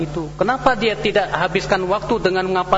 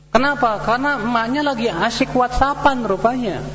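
ordinary delivery

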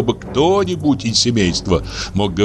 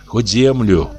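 a touch higher, gently coaxing; lightly voiced pleading old woman; 4 semitones higher than usual. Varvara coaxing the old man to write the will, gently pleading.

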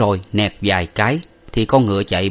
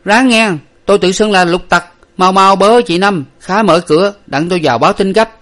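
higher, loud urgent servant call; 11 semitones higher, 7 dB louder than usual. A narrator's reading. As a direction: yell through the shut door to hurry her. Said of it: "Lục Tặc nói lớn lên rằng".

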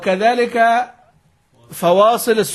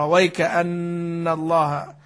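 slow recited demo; much slower than usual. Shown as a demonstration. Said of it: "لابد أن يبدأ مرة أخرى".

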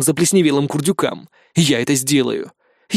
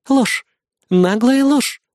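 higher, sharp accusing growl; growled accusation; 9 semitones higher, much slower than usual. Acted. Amanda accuses the hero, growling. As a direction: call out the lie angrily. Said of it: "прорычала Аманда".

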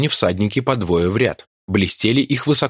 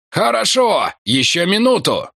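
calling back; 10 semitones higher than usual. Acted. Martin shouting back while firing. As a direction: shout back mid-fight. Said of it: "отозвался он".

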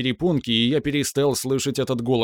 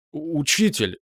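stammering; 4 semitones higher than usual. Acted. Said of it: "запинаясь".

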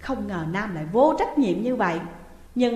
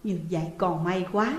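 relieved sigh; 3 semitones lower than usual. Acted. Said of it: "bà thở dài nhẹ nhõm".

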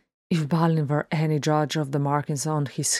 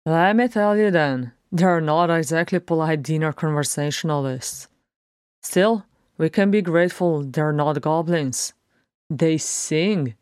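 grinning, lightly lifted dwarf voice; irreverent dwarf; 3 dB louder than usual. Acted. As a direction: lightly voice a dwarf enjoying his joke. Beaufort jokes on, grinning.

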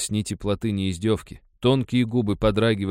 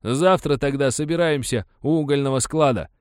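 higher, louder resolve; determined miner; 7 semitones higher, 5 dB louder than usual. A narrator's reading. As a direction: settle it, firm and eager. Miner sets the meeting.

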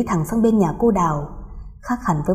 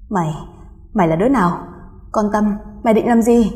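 stammering fright. Acted. Woman facing a ghost at her door, stammering in fear. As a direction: stumble over the words in terror. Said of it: "cô lắp bắp nói".

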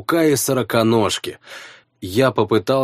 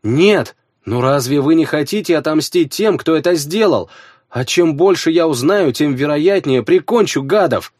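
eager persuasion; 5 semitones higher than usual. Acted. Hero argues for revenge.

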